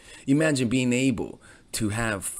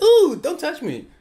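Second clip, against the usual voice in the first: high, loud, drawn-out squeal of refusal; mock recoiling woman; 6 dB louder, slower than usual. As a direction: put on a woman shrinking from a touch. Retold woman rebuffs his touch.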